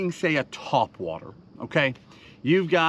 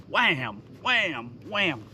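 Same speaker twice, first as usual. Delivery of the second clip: sound effect; slower than usual. Shown as a demonstration. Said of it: "We're hitting that bait".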